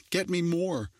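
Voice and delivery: high, rude barked command; yelled order. A narrator's reading. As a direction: yell it as you grab the bucket. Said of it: "Rachel yelled".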